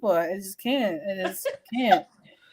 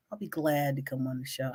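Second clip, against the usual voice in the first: imitating the ex; 8 semitones lower, 12 dB quieter than usual. Voices the ex accepting her invitation.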